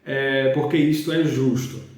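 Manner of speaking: slow, measured Bible reading; scripture reading. Real, not acted. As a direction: read the verse out slowly, phrase by phrase. Reads the Bible verse aloud. (leitura bíblica pausada)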